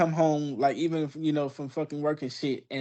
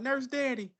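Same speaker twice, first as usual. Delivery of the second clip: put-on sick kid voice; 10 semitones higher, 5 dB quieter than usual. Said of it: "Jackson used to get sick and be like".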